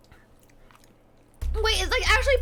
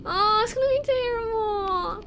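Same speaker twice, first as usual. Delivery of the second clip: usual speaking voice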